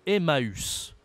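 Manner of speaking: Emmaüs with U sounded as its own vowel; tréma ü. Shown as a demonstration. Teacher gives the tréma example, separate ü in Emmaüs. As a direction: split a and ü in Emmaüs. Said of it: "ça change la prononciation".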